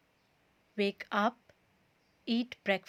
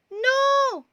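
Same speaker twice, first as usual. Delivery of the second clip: high, loud shouted refusal; 12 semitones higher, 7 dB louder than usual. A narrator's reading. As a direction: bark it out in alarm. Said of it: "shouted Todd".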